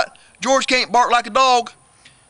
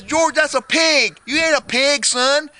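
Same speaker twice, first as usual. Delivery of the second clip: slow, higher-pitched scolding mama; mildly exasperated mother, drawn out; 4 semitones higher, slower than usual. Acted. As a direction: correct your puppy in lightly acted disbelief. Exasperated mama corrects puppy.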